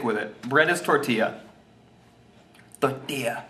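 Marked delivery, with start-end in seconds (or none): 2.8-3.4 lightly mock Spanish-accented word; put-on Spanish accent. Shown as a demonstration. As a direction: give it a touch of Spanish accent. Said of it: "say it in an accent".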